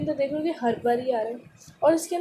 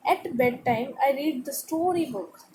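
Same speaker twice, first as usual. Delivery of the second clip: slow, clear read-aloud for a class; much slower than usual. Acted. Teacher reading the paragraph to students, slow and clear. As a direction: read each word slowly to pupils. Reads text slowly.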